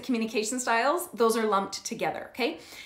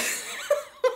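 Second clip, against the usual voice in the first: high laugh. Real, not acted. Laughing after teen impression.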